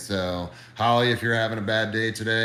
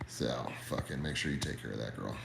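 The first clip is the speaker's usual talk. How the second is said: 1 whispered plea; 8 semitones lower, 9 dB quieter than usual. Real, not acted. Hushed closing plea for Holly.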